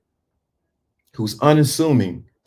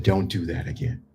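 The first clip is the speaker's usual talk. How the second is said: much softer, low calm warning; patient voice; 6 semitones lower, 9 dB quieter than usual. Shown as a demonstration. Man telling someone off in a soft, patient voice. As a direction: say it quietly and evenly. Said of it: "they recognize that patient voice".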